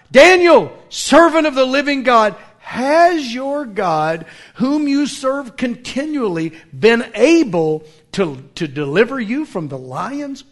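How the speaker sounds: anguished king calling loudly, then fading; lamenting cry. Acted. Sleepless king calls into the lions' den, loud lamenting cry. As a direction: cry out to Daniel in fearful hope. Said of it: "he cried out with a lamenting voice".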